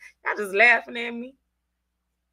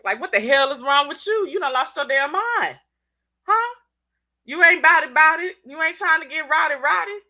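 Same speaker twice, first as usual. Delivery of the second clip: higher, confrontational hood voice; 6 semitones higher, 3 dB louder than usual. Shown as a demonstration. Host shows viewers her hood voice, confrontational. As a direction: put on a challenging hood voice. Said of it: "I give you my hood voice".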